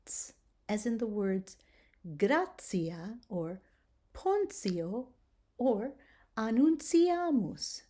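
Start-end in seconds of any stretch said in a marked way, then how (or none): 2.2-7.8 "gratia" as grah-tsee-ah; "annunciamus" with a clear ts; ts sound. Shown as a demonstration. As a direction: give the T a ts sound before I. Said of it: "Do you hear that I'm giving it the ts sound".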